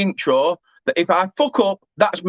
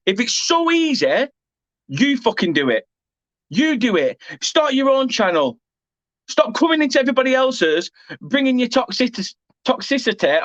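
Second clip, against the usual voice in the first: higher, heated challenge; angry rant; 3 semitones higher than usual. Real, not acted. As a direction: tell them off hard. Furious rant at a viewer.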